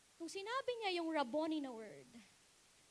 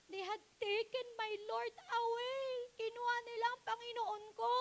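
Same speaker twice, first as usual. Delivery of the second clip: higher, with a crying catch; tearful plea; 6 semitones higher than usual. Acted. Mary telling the angels her Lord is gone, tearful. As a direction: plead through tears.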